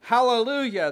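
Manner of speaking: a high, loud cry of praise; ringing shout; shouted hallelujah. Retold or imitated. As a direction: call out the hallelujah in triumph. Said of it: "And again they shouted".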